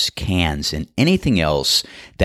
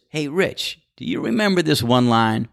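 a hint of a higher caddie voice; lightly voiced friend quoting the movie; imitating Cloudy; 5 semitones higher than usual. Golfer retells caddie's movie line, mildly higher. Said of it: "And he goes".

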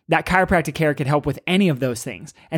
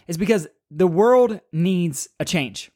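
whispered; slower than usual. Acted. Emphatic core message of podcast.

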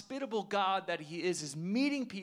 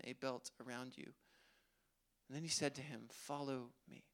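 scripture reading. Acted. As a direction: read the passage gently and steadily. Reading the scripture passage aloud.

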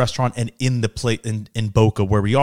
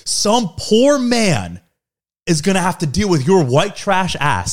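drawn-out, high-pitched retold jab; retold insult; 5 semitones higher, slower than usual. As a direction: stretch out the opening of a mock insult. Retelling dad's escalating insult.

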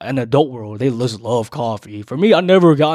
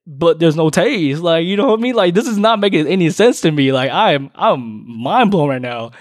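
baffled; 4 semitones higher, 4 dB louder than usual. Real, not acted. Baffled by her answer.

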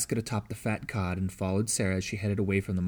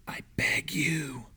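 slow, desperate whispered plea; pleading whisper; 6 semitones higher, 3 dB quieter, much slower than usual. A narrator's reading. Morse begs the girl in secret: slow whispered plea. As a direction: beg in a whisper, drawing it out. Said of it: "Morse whispered".

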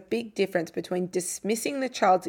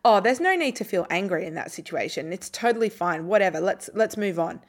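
dismissive. Shown as a demonstration. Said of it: "Dismissing it would be".

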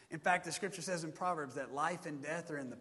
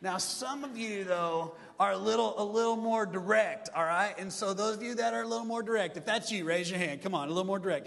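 building preacher energy; 7 dB louder than usual. Acted.

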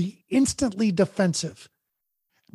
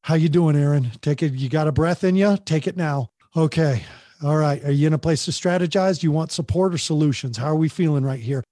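calming friend. Retold or imitated. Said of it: "she's saying".

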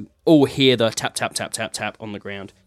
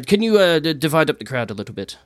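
Hercules; 5 semitones higher than usual. Acted. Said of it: "Hercules says to you".

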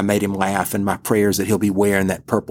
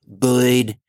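put-on deep South Alabama accent. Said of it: "he would say things like".

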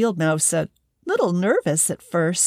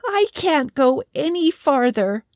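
squeaky hedgehog; 7 semitones higher than usual. Acted. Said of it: "the little hedgehog squeaked".

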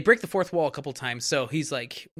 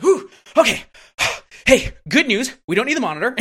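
high, loud mock-cheerful sigh, then fake good news; sarcastic and patronizing; 8 semitones higher, 9 dB louder than usual. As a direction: patronize the kid with a higher, louder bright tone. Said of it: "so sarcastic and patronizing".

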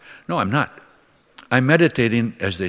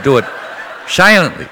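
laughing; 4 semitones higher, 5 dB louder than usual. Real, not acted.

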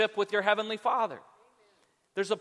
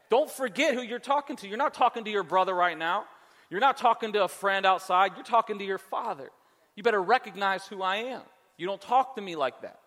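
stern parent scolding. Retold or imitated. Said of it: "I'll say things like that".

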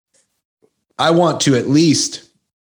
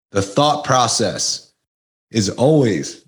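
talking between sips of soda; while sipping a drink; slower than usual. Real, not acted. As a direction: speak around a sip of a drink. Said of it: "excuse me, I'm drinking my Coke Zero".

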